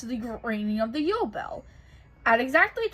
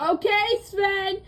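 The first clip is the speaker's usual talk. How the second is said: snowman calling out; 8 semitones higher, 4 dB louder, much slower than usual. Acted. Olaf calling across gorge.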